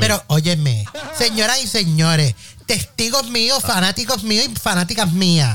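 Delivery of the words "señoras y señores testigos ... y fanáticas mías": mock formal address. Addresses podcast listeners.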